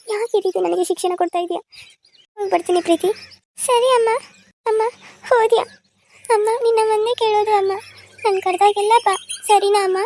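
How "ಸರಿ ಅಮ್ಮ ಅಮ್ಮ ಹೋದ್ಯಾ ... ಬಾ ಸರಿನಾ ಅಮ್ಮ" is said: crying. Acted. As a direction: call after her mother through tears. Daughter cries after departing mother. (ಅಳುತ್ತಾ ಅಮ್ಮನನ್ನು ಕರೆಯುವುದು)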